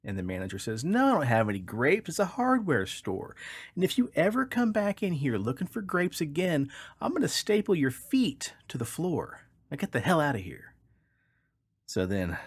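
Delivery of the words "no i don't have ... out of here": much higher, hammed-up furious threat; threatening shopkeeper. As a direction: threaten to staple its feet. Manager threatens duck.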